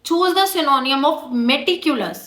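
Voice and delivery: slow, deliberate read of the question; slow dictation-style reading. Shown as a demonstration. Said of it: "मैंने तुम्हारे लिए कुछ questions भी यहाँ पे लिखे हैं".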